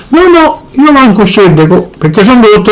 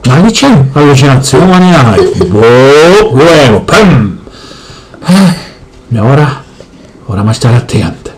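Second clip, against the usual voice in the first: low, heavy father voice; gruff Sicilian dad; 12 semitones lower, slower than usual. Acted. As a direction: boom it out like a grumpy papà. Father again.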